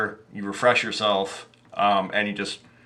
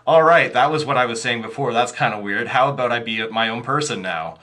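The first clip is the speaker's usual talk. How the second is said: NPC voice; 2 semitones higher, 4 dB louder than usual. Retold or imitated. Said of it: "Chris wearing a mask saying".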